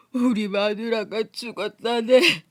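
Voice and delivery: slow, sniffling, choked words; tearful confession. Acted. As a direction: break the news through tears. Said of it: "코를 들이마시며". (훌쩍이며 아내의 죽음을 털어놓음)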